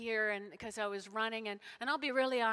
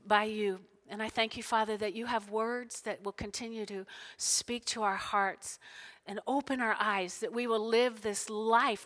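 public prayer; 7 dB louder than usual. Real, not acted. Leads the congregation in prayer.

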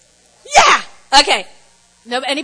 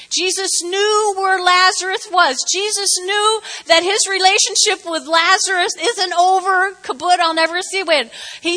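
higher, insistent preaching on Jesus knew; impassioned preaching; 5 semitones higher than usual. Real, not acted. Pastor urging the congregation, impassioned preaching. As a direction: press the point home, rising.

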